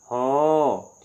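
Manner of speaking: हो said with a rounded o vowel in place of हा; हो, rounded o, not a; Assamese pronunciation. Shown as a demonstration. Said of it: "हा को असमिया में कहेंगे".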